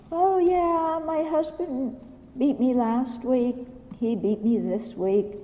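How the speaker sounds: lightly voiced, airy resignation; mock placid abused wife. Abused wife shrugging off her husband's beatings, mock-serene voice. Mocking an abused wife's false compassion.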